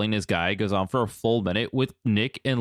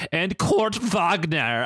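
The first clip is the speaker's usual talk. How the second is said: slow, higher mock German accent; 5 semitones higher, much slower than usual. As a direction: draw the name out in a put-on German accent. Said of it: "He says it with the accent too".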